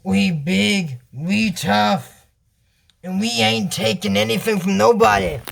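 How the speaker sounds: a hint of menacing swagger; lightly voiced tough guys. Viewer imagines menacing villains, lightly voiced tough talk. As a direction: lightly play the tough gang, word by word. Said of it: "they could look more like".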